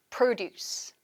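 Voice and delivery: produce stressed on PRO; first-syllable stress. Shown as a demonstration. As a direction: model produce as PRO-duce. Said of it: "액센트가 일강세로 바뀌게 됩니다".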